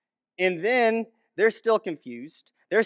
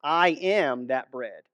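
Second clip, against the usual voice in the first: with authority; 5 semitones lower, slower than usual. Retold or imitated. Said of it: "this authority of which he's saying this".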